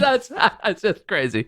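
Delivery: slow, high, through laughter; real laughing. Real, not acted. Podcaster recovering from a laughing fit, still laughing. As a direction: struggle to talk after cracking up.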